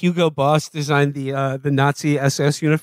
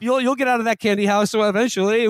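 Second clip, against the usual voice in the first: lightly mocked leader's awkward pep talk, a bit higher; halting, folksy encouragement to children; half-hearted dictator writing a kindly reply; Adolf Hitler; 5 semitones higher than usual. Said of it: "if Adolf Hitler were, like, responding".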